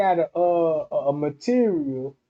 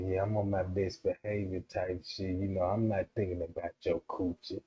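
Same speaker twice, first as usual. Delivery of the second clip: much lower, soft innocent voice; best behavior; 9 semitones lower, 10 dB quieter than usual. Retold or imitated. A man voicing his best behavior to a woman, low and soft. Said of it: "the nigga be like".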